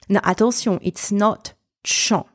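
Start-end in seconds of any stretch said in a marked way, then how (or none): 1.8-2.2 "chan" wrongly started with a t, as "tchon"; mispronounced with T. Shown as a demonstration. Teacher warns learners what it's not, mispronounced with T. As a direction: put a hard t before the sh in "chan". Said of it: "There's no T in that sound".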